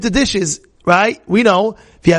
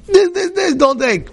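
much higher, slow, insistent plea; mother pleading with her son not to take the dish, high and slow; mother's pleading warning; 12 semitones higher than usual. Retold or imitated.

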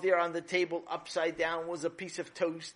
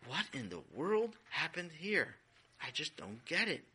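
baffled and quiet; 6 dB quieter than usual. Acted. Mother baffled by the mess.

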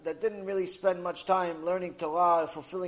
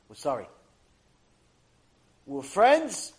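normal talking voice

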